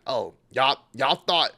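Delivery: imitating a cocky, mocking taunt at the crowd; mock the doubters like a smug heel; a hammed-up smug wrestling villain gloating. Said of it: "she's kinda playing up the heat".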